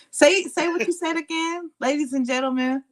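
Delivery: trying out the host's show intro; co-host practicing the show's welcome line. Shown as a demonstration. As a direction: rehearse the opener like a host. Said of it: "I be liking to practice it".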